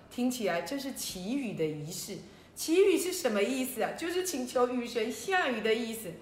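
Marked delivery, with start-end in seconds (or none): none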